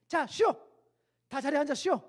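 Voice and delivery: loud barked drill command; officer's shout. Retold or imitated. Drill officer shouting at recruits to rest. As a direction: shout the order like a drill instructor.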